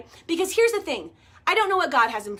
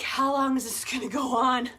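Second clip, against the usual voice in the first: husband's question, laughed through and rising louder; laughing exasperation; 4 dB louder than usual. Retold or imitated. Imitating her husband, laughing at the endless wait, laughing complaint. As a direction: giggle while mock-complaining. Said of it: "And John's like".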